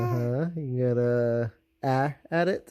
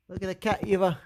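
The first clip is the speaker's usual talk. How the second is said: high coaxing; 6 semitones higher, faster than usual. Real, not acted. Parent coaxing baby.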